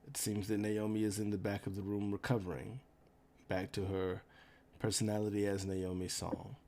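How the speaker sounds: flat, even monotone. Acted. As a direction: speak without any emotion. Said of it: "in a very monotone voice".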